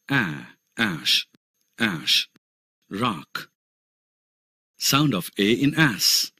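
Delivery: each vowel sound said very slowly and clearly; slow phonics drill. Shown as a demonstration. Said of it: "मूल ध्वनियां". (धीमा, साफ़ उच्चारण अभ्यास)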